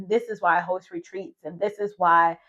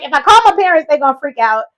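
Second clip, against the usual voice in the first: higher, louder anxious thought; worried inner voice; 8 semitones higher, 12 dB louder than usual. Retold or imitated. Alone and sick in Malaysia, anxiously dreading calling her parents. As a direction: fret about telling the parents. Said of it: "I'm like".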